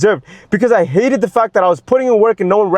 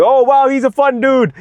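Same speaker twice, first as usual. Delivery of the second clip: admiring relatives; 5 semitones higher than usual. Retold or imitated. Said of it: "would get all the compliments and be like".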